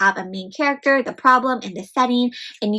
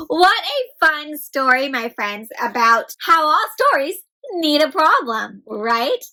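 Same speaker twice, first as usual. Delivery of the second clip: storytime enthusiasm; 4 semitones higher than usual. Acted. Teacher enthusing to kids.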